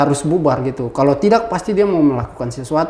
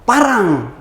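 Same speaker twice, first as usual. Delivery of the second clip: retold cry of alarm, pitched up; higher, half-voiced yell; mild mock yell; 5 semitones higher than usual. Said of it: "dia teriak".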